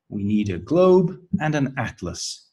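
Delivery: globe rises, atlas falls; list intonation. Shown as a demonstration. Next participant in the memory game, rise then fall on atlas. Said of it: "has a rising intonation".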